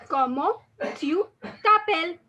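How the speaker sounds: teacher models Comment tu t'appelles, word by word; slow French model phrase. Shown as a demonstration. Teacher models the French question for students, slowly.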